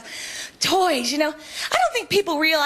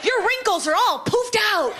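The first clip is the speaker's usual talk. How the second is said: gushing admirer; 5 semitones higher than usual. Retold or imitated. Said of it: "someone would come up to me and go".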